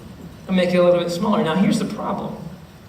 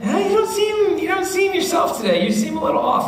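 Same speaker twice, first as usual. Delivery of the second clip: higher concerned friend voice; 8 semitones higher than usual. Retold or imitated. Friend tells Mark he seems off, higher concerned tone. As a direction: raise the voice to play a worried friend.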